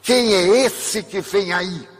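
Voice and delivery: possessed wife shouting through the door, mild mock yell; retold shout. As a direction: call out suspiciously, dragging it. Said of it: "ela gritou de lá".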